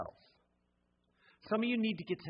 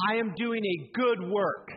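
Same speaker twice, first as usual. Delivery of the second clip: proclaiming declaration; 3 semitones higher than usual. Shown as a demonstration. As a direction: declare it like a battle cry. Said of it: "You need to climb up on that wall and say".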